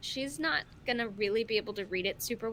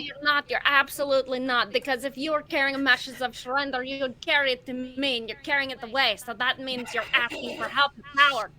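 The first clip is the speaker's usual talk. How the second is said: arguing back; 4 dB louder than usual. Acted. Bitsy argues back at mouse.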